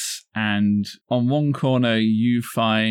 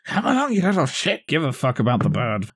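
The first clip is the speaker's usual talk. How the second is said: irritated mother; 4 semitones higher, faster than usual. Acted. Tired parent voiced by the DM.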